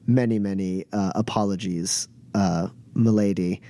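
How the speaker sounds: low, hesitant apology, lightly voiced servant; apologetic servant. Servant apologizes to milady for interrupting, low and deferential. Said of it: "Tosh comes over and is like".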